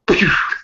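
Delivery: unvoiced blown whoosh; imitated whoosh. Game master showing the hat blown away, whoosh. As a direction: puff out a gust of wind.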